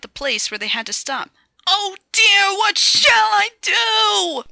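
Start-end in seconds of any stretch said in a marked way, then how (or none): 1.7-4.4 frightened. Acted. Thomas speeding downhill.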